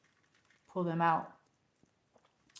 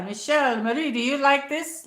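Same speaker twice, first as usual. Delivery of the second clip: put-on grandma's Italian accent, higher and louder; accento italiano; 6 semitones higher, 5 dB louder than usual. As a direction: imitate an Italian grandmother calling her granddaughter. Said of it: "she had, like, an accent".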